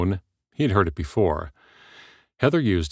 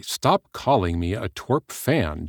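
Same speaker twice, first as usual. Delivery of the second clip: biting; 3 semitones higher, slower than usual. Acted. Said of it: "Jason said bitingly".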